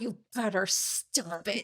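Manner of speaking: stern mom warning, slowed down; a hint of a stern mother scolding. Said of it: "With your mom voice".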